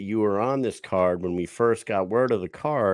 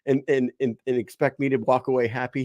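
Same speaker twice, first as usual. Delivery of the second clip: mock indignant rant; 5 semitones higher than usual. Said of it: "He's like".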